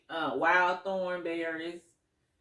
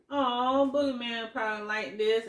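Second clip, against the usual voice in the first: excited; 4 semitones higher than usual. Retold or imitated. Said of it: "I'm like".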